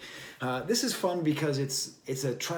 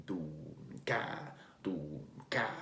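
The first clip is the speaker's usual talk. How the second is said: vocal beat, do then ka; beat imitation; 6 semitones lower, 7 dB quieter than usual. Shown as a demonstration. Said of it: "Not exactly like that".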